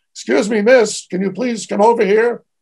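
shouted out. Recounting calling to a waitress across the room who ignored them; retelling a yell. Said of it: "I yelled out".

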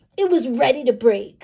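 grouchiest possible voice, loud and grouchy. Narrator reads Matthew answering Tilly about the crayon, grouchiest voice. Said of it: "Matthew said in his grouchiest voice".

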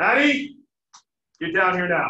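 loud angry shout. Speaker demonstrating a parent calling a child downstairs, raised angry voice. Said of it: "Raise your voice".

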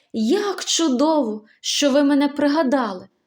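delighted. A girl, recognized by a friend from the city park, answers delighted. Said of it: "зраділа Поліанна".

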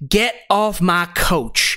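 put-on southern US accent. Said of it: "although she doesn't have a southern accent".

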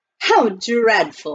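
laughing while speaking. An aunt responds to someone's new nickname from the diggings, laughing. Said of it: "Aunt Arabella laughed".

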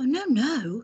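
high-pitched voice, crying out. Reading a story, one woman answers another's accusation, crying out. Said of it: "cried Miss Honey".

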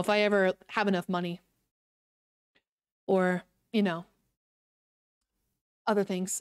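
low, foreboding, doom-laden, ominous tone. Speaker muses aloud about the future, in an ominous tone. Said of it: "why did I say it so ominously like that?".

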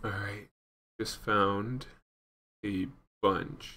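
hushed, quiet whisper. Talking to viewers while playing a game, whispering. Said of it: "I don't even know why I'm whispering".

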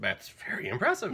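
plain

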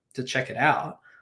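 normal talking voice

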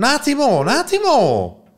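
high, loud, frantic and panicked voice.

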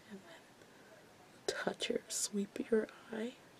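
soft, breathy whisper under the breath. Explaining a makeup step while doing own makeup, whispering.

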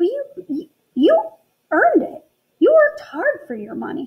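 taken aback, surprised, with swooping pitch. A man being handed a bag of coins replies, surprised. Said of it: "The can man stared in surprise".

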